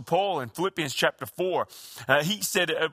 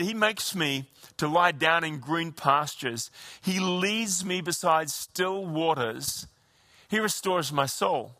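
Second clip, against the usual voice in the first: gentle recitation; slower than usual. Shown as a demonstration. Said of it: "He said".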